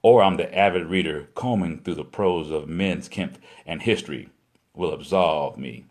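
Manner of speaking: measured spoken-word delivery in phrases; poem recitation. Acted. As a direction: recite it like spoken-word poetry, letting each line fall at its end.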